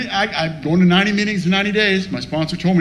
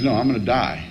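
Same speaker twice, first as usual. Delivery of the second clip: low, subdued retelling; grave insistence; 5 semitones lower than usual. Retold or imitated. Sick friend insists he will die, grave insistence. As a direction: insist soberly, keeping it low.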